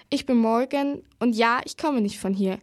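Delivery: clearly enunciated self-introduction. A narrator's reading. Girl answering a request to speak up, clearly. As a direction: get the words out plainly and distinctly. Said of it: "sagte sie nun deutlicher".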